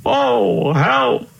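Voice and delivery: high, alarmed call for help; hammed-up high cry for help; mock panicked cry. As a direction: squeal it like a lost old king. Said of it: "cried the king".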